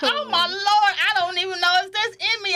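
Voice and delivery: high, fast, flustered retelling; mock panic. Mother doubts she can be cuddly, high mock panic. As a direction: rush it out in comic alarm. Retold panic about giving affection.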